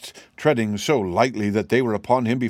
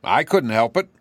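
crestfallen; 3 semitones higher, 4 dB louder than usual. Acted. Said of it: "rather crestfallen".

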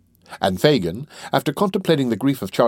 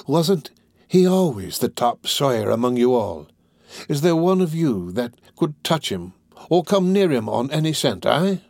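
mildly indignant, rising to a higher pitch; angry challenge; 5 semitones higher than usual. Acted. Fagin challenging his pupil, indignant. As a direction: press the question, ending on a sharp eh.

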